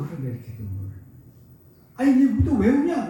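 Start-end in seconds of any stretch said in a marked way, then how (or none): 2.0-3.1 slow, surprised asking; a grandfather startled that the baby cries; startled question. Retold or imitated. Grandfather startled by the crying baby, asking slowly why. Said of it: "나도 깜짝 놀라서".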